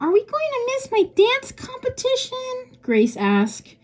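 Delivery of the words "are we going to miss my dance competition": put-on very high-pitched voice of an eleven-year-old girl. Reading a story aloud, voicing the eleven-year-old daughter: eleven-year-old girl voice. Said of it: "Does an eleven-year-old have a voice like that?".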